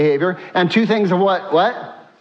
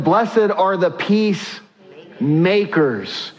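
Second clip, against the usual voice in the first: each word slowed and weighed like scripture; slow scripture quote; much slower than usual. Acted. Pastor reading Jesus's words to the church, slow and solemn. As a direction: lay the beatitude down slowly for the congregation.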